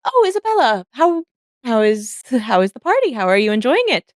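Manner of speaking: high, sing-song society lady; Charlotte's voice. Acted. Painter greeting Isabella at the party, in a high gushing voice. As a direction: gush up high like a fussy painter. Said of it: "Charlotte kinda looks over and is like".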